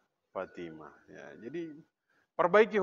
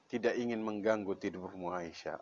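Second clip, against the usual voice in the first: low, soft imitated reassurance; tender reply; 7 semitones lower, 11 dB quieter than usual. The Prophet to Aisyah at the door, tenderly. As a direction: answer gently, voice sinking low and quiet.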